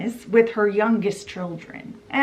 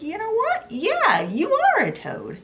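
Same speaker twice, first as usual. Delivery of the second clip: mocking taunt; 9 semitones higher than usual. Barge woman taunting Toad.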